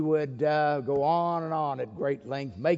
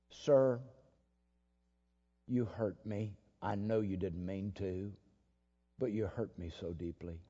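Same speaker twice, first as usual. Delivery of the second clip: low, much softer, hurt voice; hurt and tearful; 5 semitones lower, 6 dB quieter than usual. Retold or imitated. Weeping girl tells the philosopher he hurt her, softly. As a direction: let the hurt sink in quietly.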